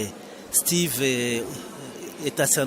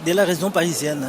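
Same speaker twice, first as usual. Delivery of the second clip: speaking up; 4 semitones higher, faster than usual. Real, not acted. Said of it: "on t'entend bien".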